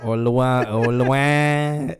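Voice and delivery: Luan said as a clipped "Lwan" for Louisiana; Southern pronunciation. Shown as a demonstration. Showing his co-host how locals say Louisiana, Luan. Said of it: "That's how you say Louisiana".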